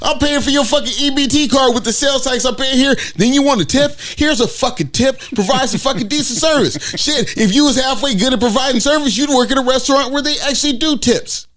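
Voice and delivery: heated rant aimed at an imagined cashier. Retold or imitated.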